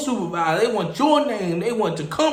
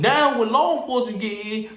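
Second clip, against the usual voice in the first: normal talking voice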